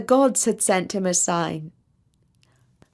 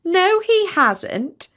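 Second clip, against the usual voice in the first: much higher, very slow teasing goose; higher, slow second goose correcting; 10 semitones higher, much slower than usual. A narrator's reading. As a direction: drag it out in mockery. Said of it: "said another".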